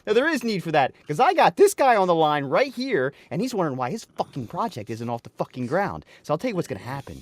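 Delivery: mock yelling. Angry client blasting Dave about the stalled project. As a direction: chew him out over the phone, half-joking. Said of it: "start yelling at me like".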